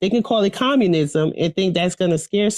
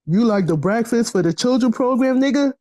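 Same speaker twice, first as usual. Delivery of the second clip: a hint of a sneering cop, rising at the end; lightly voiced officer baiting her; 3 semitones higher than usual. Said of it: "that's her cop voice".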